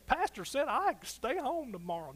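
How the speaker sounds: mock misquote. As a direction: lightly play the listener who misheard. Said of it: "don't twist what I'm saying".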